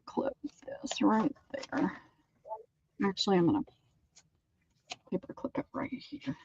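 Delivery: whispered to herself while working; whispering. Real, not acted. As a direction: breathe the words as she works. Muttering while clipping papers.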